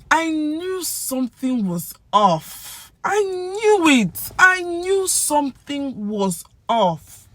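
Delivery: high, slow, drawn-out wail; theatrical I-knew-it lament; vindicated outburst. Pretend. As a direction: wail it like your hunch just came true. Acts out suspicion confirmed.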